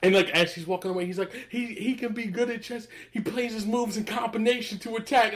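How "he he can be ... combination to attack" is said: put-on a higher, friendly call after the kid; half-playful stranger hailing a child; imitating Fishburne calling out. Chess hustler calls to a departing kid, lightly voiced.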